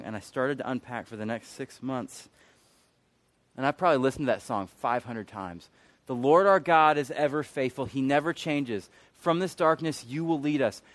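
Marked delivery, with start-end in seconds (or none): 6.1-10.8 raised, firm recital; emphatic proclamation. Retold or imitated. Preacher declaring the song he replayed endlessly, emphatic proclamation. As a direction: declare the lyric out with conviction. Same lyric, now proclaimed.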